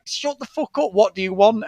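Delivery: mock exasperation. Telling his singing brother to shut up, mock exasperated. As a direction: cut off the singer in mock annoyance.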